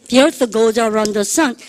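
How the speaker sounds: each word dragged out very slowly; slow choral model. Shown as a demonstration. Teacher leads the class in reciting the rule sentence, very slow. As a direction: drill pace, word by word. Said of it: "The earth, 시작".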